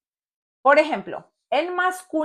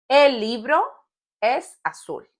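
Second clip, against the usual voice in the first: "El libro", pause, then "es azul"; teacher's phrase-by-phrase repeat with a long pause; broken up for learners; 3 semitones higher than usual. Shown as a demonstration. Example repeated in pieces for learners.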